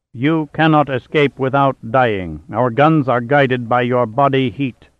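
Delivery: slow, hollow and mechanical; hollow robot voice. Acted. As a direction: threaten like a calm machine. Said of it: "in a hollow voice".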